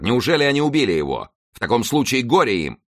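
high, alarmed and threatening; officer's outcry. A narrator's reading. Officer threatens the crowd over the youth, high outcry. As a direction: exclaim it with pitch lifted. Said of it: "вскричал офицер".

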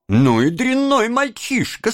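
high, drawn scolding woman; indignant bystander. A narrator's reading. Woman passer-by judging Oliver, indignant scolding.

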